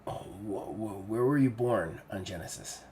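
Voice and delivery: soft, stumbling, dawning suspicion; hushed questioning. Acted. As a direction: falter softly into the question. Siggy nearly onto something.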